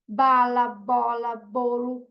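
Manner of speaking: one word at a time, evenly spaced; slow word-by-word reading, first word hit harder; beginning reader. Retold or imitated. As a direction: lightly imitate a child's first reading. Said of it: "ele já começou a ler".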